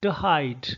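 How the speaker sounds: TO reduced to "tuh" in "to hide"; lightly said "tuh" before a full HIDE; weak TO before hide. Shown as a demonstration. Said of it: "it is pronounced to".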